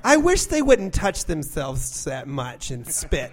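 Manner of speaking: slow, disapproving mom; lightly voiced mom complaint; mom impression. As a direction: tut over the players like a mother. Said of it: "something my mom would say".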